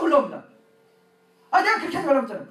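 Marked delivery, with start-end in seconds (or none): 1.5-2.5 irritated husband, lightly acted; a touch of exasperation; mild retold anger. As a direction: snap a little, re-enacting annoyance. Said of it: "그래서 내가 화를 내요".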